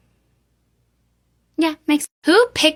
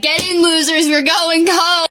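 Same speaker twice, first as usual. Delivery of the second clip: mock call to friends; 7 semitones higher, 3 dB louder than usual. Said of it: "be like".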